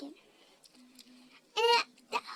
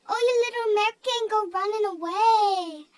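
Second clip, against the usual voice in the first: rapid, louder and higher teasing; fast mock taunt; 3 semitones higher, 6 dB louder than usual. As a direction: rattle off the insult like a schoolyard bully. Friend taunts narrator.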